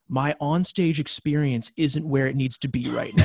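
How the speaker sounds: lightly imitating a whiny singer, a laugh in it; mock quote.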